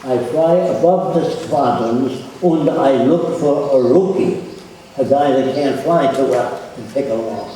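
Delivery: lightly voiced German accent; faint German accent, casual and matter-of-fact. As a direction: quote the German pilot with a hint of German accent. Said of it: "with a German accent".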